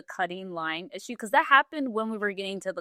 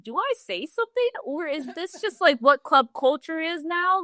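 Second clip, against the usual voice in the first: retold disbelief; 9 semitones higher than usual. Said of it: "I'm like".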